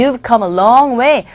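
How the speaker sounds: unhurried model sentence; slow demo read. Shown as a demonstration. Teacher modelling the phrase slowly to students. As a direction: say it slowly for learners. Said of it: "그래서".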